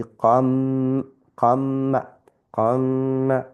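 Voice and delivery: qam, the m held with a slight nasal; qam with ghunna. Shown as a demonstration. Teacher repeating qam with slight nasal. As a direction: say qam with a short nasal hold. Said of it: "ghunna, and slight nasal".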